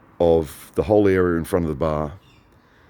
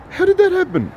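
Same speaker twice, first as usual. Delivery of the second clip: very high, squeaky astonishment; amazed retold question; 4 dB louder than usual. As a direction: imitate a friend's high-pitched disbelief. Friend amazed at the photo.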